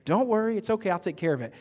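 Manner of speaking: imitating the professor. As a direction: lightly raise the pitch for the professor. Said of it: "And he goes".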